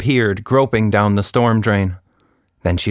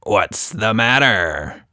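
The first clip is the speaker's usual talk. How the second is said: grinning taunt; slower than usual. Acted. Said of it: "he grinned".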